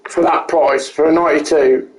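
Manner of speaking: talking through hiccups. Real, not acted. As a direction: speak with hiccups breaking in. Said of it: "Excuse me, I've got the hiccups".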